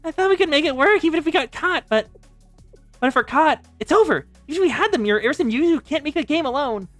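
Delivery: despairing protest. Acted. Younger sister to sister as the plan fails, despairing protest. Despairs that they are caught.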